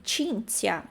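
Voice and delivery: "Cinzia" said CHIN-tsia, falling; ch then ts in "Cinzia"; Italian ci and zi. Shown as a demonstration. Teacher applies CI and ZI rule, careful pronunciation. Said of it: "C I e depois o Z I".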